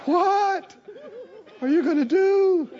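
high, pushy needling voice; a mocking imitation of a harassing voice; nagging tormentor. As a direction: needle him like a pest that won't quit. Mimicking the enemy's nagging voice.

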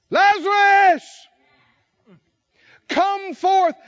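high, loud, slow call; commanding shout. Acted. The Father calling Lazarus from the grave, shouting. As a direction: bellow the name into the tomb.

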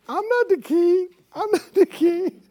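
high, whimpering mock sob of a weak believer; mock crying whine. Preacher mocking a timid believer, whining high. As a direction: whine it like a crybaby. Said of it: "start crying and going".

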